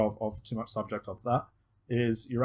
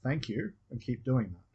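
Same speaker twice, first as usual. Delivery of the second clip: gentle encouragement; 2 semitones higher than usual. Shown as a demonstration. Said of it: "talking to their unconscious".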